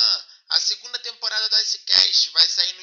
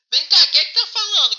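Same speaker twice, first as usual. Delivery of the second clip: laughing; 9 semitones higher, 6 dB louder, faster than usual. Real, not acted. Laughing at the odd caller.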